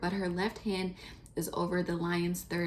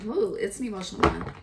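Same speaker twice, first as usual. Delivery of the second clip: louder, higher, quicker emotional ooh; emotional burst; 4 semitones higher, 6 dB louder, faster than usual. Real, not acted. Reader moved by the cards, bursts out emotionally. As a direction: let the feeling spill out on the ooh. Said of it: "I'm getting emotional".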